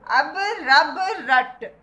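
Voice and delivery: each word said slowly and clearly; slow classroom recitation. Shown as a demonstration. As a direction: recite the words slowly for children to repeat. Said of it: "अब रब रट यानी अल्लाह का नाम ले".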